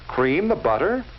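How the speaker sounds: "Cream the butter?" with a puzzled lift on "the"; puzzled question. Acted. Margie puzzling over her cookbook, a mildly puzzled rise. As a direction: wonder what "Cream the butter" means, rising.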